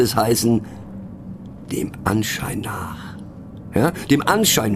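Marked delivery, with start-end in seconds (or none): 1.7-3.2 hushed, slow whisper of the correction; a sly stage whisper; whispered aside. Acted. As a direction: let it slip out as a secret. Cabaret aside, corrected phrase.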